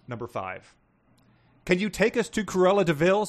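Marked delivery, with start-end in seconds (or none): 1.6-3.3 Missus voice. Acted. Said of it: "said Missus".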